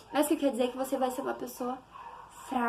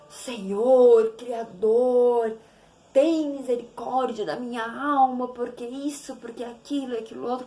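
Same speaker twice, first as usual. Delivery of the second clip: stiff formal prayer; 5 dB louder, slower than usual. Retold or imitated. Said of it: "Como se estivesse falando com um estranho".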